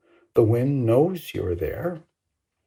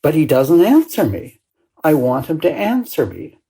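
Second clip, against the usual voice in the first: put-on a child's plea, louder and pushing; mildly imitated child crying out to be answered; 4 semitones higher, 4 dB louder than usual. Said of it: "he cries out".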